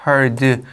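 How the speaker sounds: put-on heard wrongly said as "hi-old"; mispronounced heard. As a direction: imitate a learner reading heard as "hee-old". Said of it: "어떤 사람도 이거 보면 이거 heard래".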